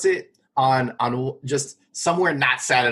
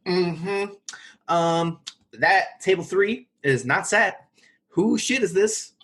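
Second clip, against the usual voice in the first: higher, slower mock inspection; nosy checker; 5 semitones higher, slower than usual. Kitchen staff check whether the guest is there, nosy. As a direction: imitate someone suspiciously checking up. Mimics chefs checking the table.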